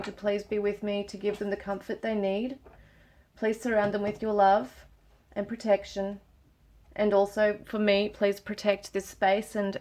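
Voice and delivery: hushed, gentle plea to spirit guides; soft prayer. Real, not acted. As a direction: pray softly, asking for comfort and protection. Praying aloud to spirit guides.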